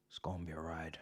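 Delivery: soft whispered echo of the line; whispered repeat. Shown as a demonstration. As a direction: breathe it again as a whisper.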